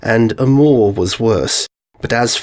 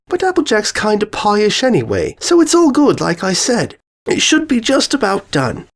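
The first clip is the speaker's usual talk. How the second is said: higher, bubbly excited pony voice; Pinkie Pie voice; 7 semitones higher than usual. Acted. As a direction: bounce it up high like an eager party pony.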